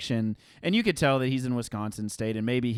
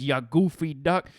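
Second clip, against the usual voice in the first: imitating Bob; 3 semitones higher, 5 dB louder, slower than usual. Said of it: "He says".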